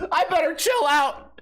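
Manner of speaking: high hammed-up panicked cry; mock panic. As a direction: fake being scared stiff.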